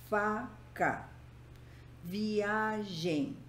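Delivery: "Faca" and "Viagem" in syllables, weight on "Fa" and "a"; stress on penultimate syllable. Shown as a demonstration. Teacher giving paroxytone examples, penultimate syllable stressed. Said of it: "a penúltima sílaba".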